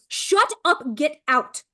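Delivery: playful imitation of an exasperated mom's outburst; mom losing it. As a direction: flip the switch and snap at the kids. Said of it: "I flip a switch where I'm like".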